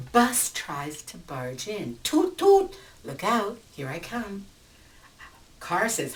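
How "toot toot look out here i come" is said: high, loud toot toot with a brash warning; pushy bus horn. Acted. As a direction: barge in like a big bus. Bus barges into traffic.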